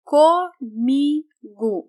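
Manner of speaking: Comigo said slowly, O sounds like U; slow model word. Shown as a demonstration. Teacher modelling Comigo for learners, slow and clear. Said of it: "the vowel O has a U sound".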